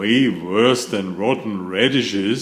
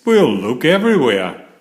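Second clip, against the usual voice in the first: commanding; 2 semitones higher, 5 dB louder, faster than usual. Acted. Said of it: "Pete directs".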